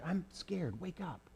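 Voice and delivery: hushed, high and frightened; a frightened lamb whispering in the dark; scared whisper. Acted. Lamb wakes his friend in the dark, scared whisper. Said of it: "he whispered".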